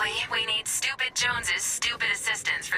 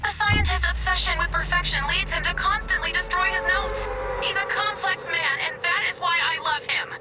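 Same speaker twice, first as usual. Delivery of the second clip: higher-pitched, insistent rebuke; emphatic defense; 5 semitones higher than usual. Acted. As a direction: defend him with raised, eager pitch. Robot chides partner, defends scientist.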